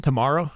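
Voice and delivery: Tomorrow with an open ah, tuh-MAR-oh; American tomorrow. Shown as a demonstration. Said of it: "The second way is more American".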